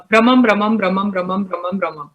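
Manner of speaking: quick even chain, each word audible; brisk tongue-twister run, fading at the end; rapid, clearer repetition. Shown as a demonstration. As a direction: repeat it fast but keep every word distinct. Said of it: "You want me to say it again?".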